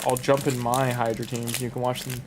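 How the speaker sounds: talking while chewing; words round a bite of food; mouth full. Real, not acted. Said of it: "talk with my mouth full".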